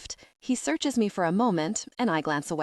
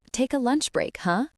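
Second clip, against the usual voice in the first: gently insistent, pitched up; pressing; 6 semitones higher than usual. A narrator's reading. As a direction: press for a yes. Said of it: "she presses".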